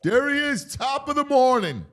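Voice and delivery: high, loud cheery welcome; excited greeting. Acted. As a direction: greet him like an old friend. Greeting Pat with a high call.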